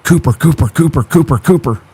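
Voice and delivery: calling the dog. Shown as a demonstration. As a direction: call the dog's name over and over to make his ears pop up. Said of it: "Every time you say Cooper, my dog's ears pop up".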